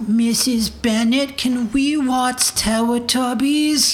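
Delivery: put-on slow, childish preschooler voice; little kid voice. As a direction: play a small child asking sweetly. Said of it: "want me to do my little kid voice".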